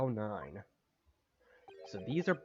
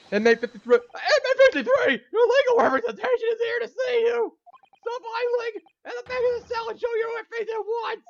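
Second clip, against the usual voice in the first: booming, high-pitched guard bark; bellowing guard; 11 dB louder than usual. Acted. Prison guard yelling at the inmate, commanding and loud. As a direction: roar the prisoner number into the cell.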